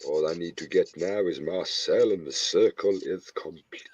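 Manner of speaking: sinister whisper; evil villain. Acted. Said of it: "You sound like an evil".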